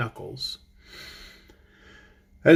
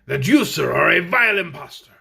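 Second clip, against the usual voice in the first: mildly harsh, indignant accusation; 4 dB louder than usual. Acted. Captain Fighter accusing the impostor, mild indignant voice. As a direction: accuse him, a touch louder. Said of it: "a voice that sounded harsh and indignant".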